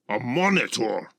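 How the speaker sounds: high, incredulous dragon's question; shocked disbelief. A narrator's reading. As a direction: exclaim it in angry disbelief. Gorlix hears shocking news.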